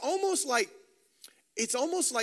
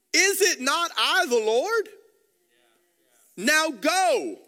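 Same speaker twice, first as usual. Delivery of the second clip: louder, higher divine command; commanding voice of God; 6 semitones higher, 5 dB louder, slower than usual. Acted. God commanding Moses to go, louder and higher. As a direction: proclaim it as God sending Moses. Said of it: "the Lord responds in verse eleven".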